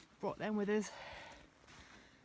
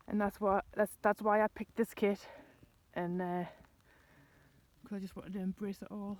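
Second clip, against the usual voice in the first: out of breath; 4 dB louder than usual. Real, not acted. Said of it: "sorry I'm out of breath".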